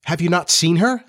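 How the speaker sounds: a touch of troubled surprise; becoming troubled. Acted. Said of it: "becoming troubled".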